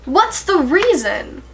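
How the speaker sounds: high, strained voice on the edge of crying; pushing through rising tears; near tears. Real, not acted. Tearing up while explaining why she cares. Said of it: "I feel like I'm about to start crying".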